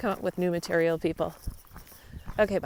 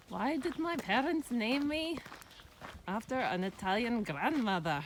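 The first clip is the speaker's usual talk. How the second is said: bad Russian accent; 6 semitones higher, 5 dB quieter than usual. Retelling a Russian walker's joke in a bad Russian accent. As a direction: lightly imitate a Russian woman's accent. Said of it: "That was a horrible accent".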